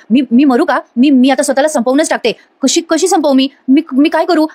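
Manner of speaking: stammering repeats, mock panic rising in pitch; retold panic. Prisoner talking to herself about life in jail, acted rising panic. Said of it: "स्वतःलाच असं घाबरत असते आणि म्हणत असते".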